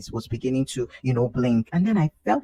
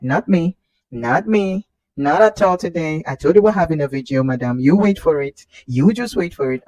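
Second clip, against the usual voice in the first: defiant refusal; 4 semitones higher, 8 dB louder than usual. Retold or imitated. Baby voiced defiantly.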